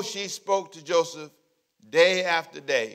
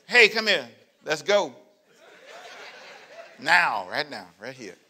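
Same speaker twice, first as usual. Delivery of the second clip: brazen come-on; 3 semitones lower than usual. Acted. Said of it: "That's what she did".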